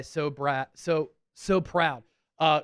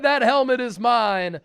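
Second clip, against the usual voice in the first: mock claiming boast; 5 semitones higher, 6 dB louder than usual. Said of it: "he said".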